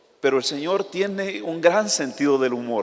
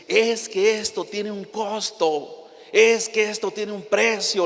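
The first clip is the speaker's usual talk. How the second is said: mock pastor cry, higher and slow; retold pastor preaching at his flock, raised and higher; imitating pastor yelling; 6 semitones higher, slower than usual. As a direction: play the fiery visiting pastor, voice raised. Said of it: "Él estaba gritando".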